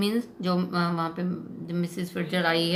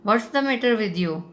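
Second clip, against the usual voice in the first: slow, louder angry demand; angry shout; 3 semitones higher, 4 dB louder, much slower than usual. Retold or imitated. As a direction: lose his temper at her.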